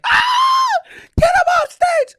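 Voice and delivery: high, loud mock yell; mock crowd yelling. Church crowd to comic on stage, high mock yelling. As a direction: screech to get him off. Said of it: "They all started yelling".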